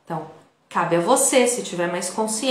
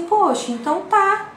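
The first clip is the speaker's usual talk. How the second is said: hurt, resigned quote; 4 semitones higher than usual. Retold or imitated. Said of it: "Você fala assim".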